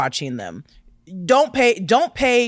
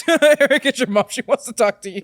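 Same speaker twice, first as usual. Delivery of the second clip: calling out; 4 semitones higher than usual. Pretend. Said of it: "I'm like".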